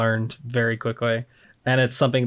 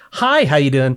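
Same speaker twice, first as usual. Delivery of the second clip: a touch of the chirpy shop greeting, a bit louder; customer service voice; 2 semitones higher, 4 dB louder than usual. Shown as a demonstration. Greeting a customer while secretly pissed, light service voice. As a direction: put on the friendly front even while pissed. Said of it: "so let's say I'm doing like this".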